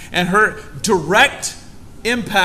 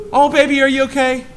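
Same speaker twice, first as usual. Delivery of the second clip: much higher and louder, fussing concern; worried mom; 8 semitones higher, 5 dB louder than usual. Retold or imitated. Pastor imitating his mom hearing he broke his knee, high and worried. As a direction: gush over him like a worried mother.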